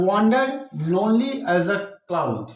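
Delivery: slow poetry reading; slow recitation. Shown as a demonstration. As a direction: read very slowly. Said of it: "यहाँ cloud है".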